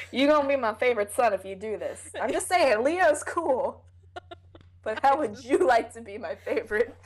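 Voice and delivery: playful bargaining, pitch lifting a little; lightly voiced coaxing father. Father bribing son with favorite status, playful coaxing. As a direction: wheedle with mock casualness. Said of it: "I can just imagine that conversation".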